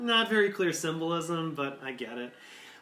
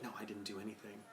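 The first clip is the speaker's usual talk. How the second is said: defensive technician; 6 semitones lower, 16 dB quieter, much faster than usual. Retold or imitated. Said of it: "will look at him and say".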